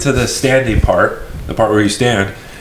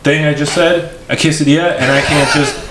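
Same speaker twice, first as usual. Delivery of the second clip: higher, halting, frustrated plea; exasperated pleading; 5 semitones higher, slower than usual. Retold or imitated. Customer begging cashier to take payment, exasperated. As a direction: draw out the plea in disbelief.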